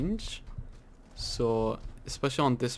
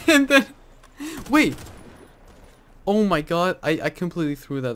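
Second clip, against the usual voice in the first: laughing disbelief; 6 semitones higher, 9 dB louder than usual. Real, not acted. Laughing at own blunder.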